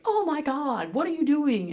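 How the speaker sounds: mock-alarmed wife woken by her husband; startled outcry. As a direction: react as if jolted awake, alarmed. Startled awake by yelling.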